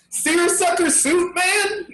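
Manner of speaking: high, laughing disbelief; laughing surprise. Real, not acted. Podcaster realizing which candidate is meant, laughing surprise. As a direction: blurt it out as it dawns on you.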